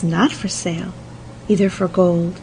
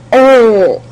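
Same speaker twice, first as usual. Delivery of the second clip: loud exasperated "Oh"; loud cry; 4 semitones higher, 11 dB louder than usual. A narrator's reading. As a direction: cry it out, fed up. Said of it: "cried the prince".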